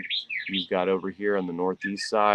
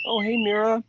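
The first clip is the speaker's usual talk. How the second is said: cheerful greeting; 14 semitones higher, 4 dB louder than usual. Real, not acted. Greeting the cat.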